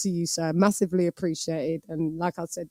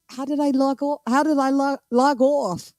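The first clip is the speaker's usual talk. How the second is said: higher, puzzled mock voice of a groggy viewer; imitating Bold; 5 semitones higher than usual. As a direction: play him waking up confused. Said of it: "he must wake up the next day like".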